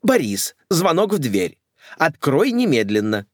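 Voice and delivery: commanding lady. Acted. Mother orders butler.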